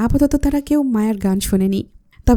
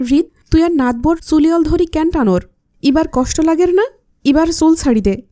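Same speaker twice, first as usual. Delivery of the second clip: grandfather chiding in Chittagonian dialect, higher; 5 semitones higher than usual. Acted. Grandfather tells grandson to let go, Chittagonian chiding. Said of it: "হৃদকে চট্টগ্রামের ভাষায় বলল".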